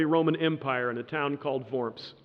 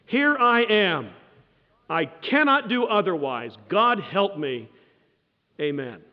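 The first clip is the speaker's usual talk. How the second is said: defiant declaration; 2 semitones higher than usual. Retold or imitated. Luther's famous defiant declaration.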